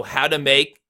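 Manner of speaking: "how" and "make" stressed, "to" light. Shown as a demonstration. Coach points out stressed syllables, "how" and "make" emphasized. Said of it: "the how and the make are stress".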